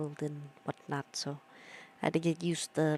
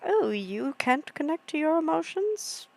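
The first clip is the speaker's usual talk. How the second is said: mock-bright start, much higher; sarcastic delight; fake-cheery retort; sarcastic cheer; 5 semitones higher than usual. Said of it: "I'm like".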